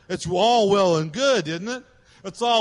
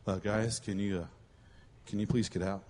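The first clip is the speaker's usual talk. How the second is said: much lower, hushed, hesitant polite ask; mock meek request; 12 semitones lower, 13 dB quieter than usual. Preacher playing Pharaoh politely asking guys to leave, mock meek. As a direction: ask timidly and softly, with hesitations.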